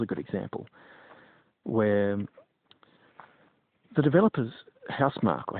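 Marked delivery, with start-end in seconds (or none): 4.9-5.4 Housemarque said as "house-mark"; trying a pronunciation. Shown as a demonstration. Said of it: "I don't know how it would be pronounced".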